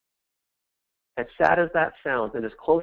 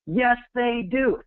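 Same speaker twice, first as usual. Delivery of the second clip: high, slow defiant shout; screaming back; 9 semitones higher, slower than usual. Acted. Shouting back at the viewer's naysayers, defiant yell. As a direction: shout it back against the doubters. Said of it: "I'm sitting here screaming the other direction".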